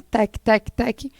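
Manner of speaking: tec tec tec, fading softly; soft tapping sound. Shown as a demonstration. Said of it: "é essa palavrinha aí". (som de batida suave, sumindo)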